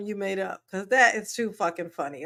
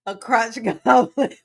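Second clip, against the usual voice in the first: laughing. Real, not acted. Laughing while explaining.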